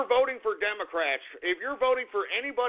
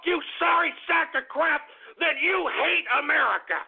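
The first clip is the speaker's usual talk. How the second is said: higher, heated ranting at the listener; angry rant; 6 semitones higher than usual. Acted. Ranter scolding non-Trump voters, heated higher rant. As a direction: work yourself up, jabbing at every you. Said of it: "I'm a little upset and I'm a little angry".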